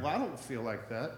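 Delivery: low, soft, deflated voice with a small laugh; deflated reply. Acted. Pastor voicing a struggling churchgoer, soft and deflated. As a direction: let the air out of the cheerful greeting. Churchgoer answers "blessed" greeting honestly.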